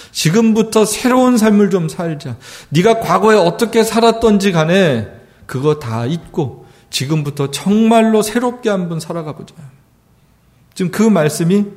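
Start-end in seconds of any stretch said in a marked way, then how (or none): 0.1-9.5 fervent plea. Acted. Voicing God's call, building.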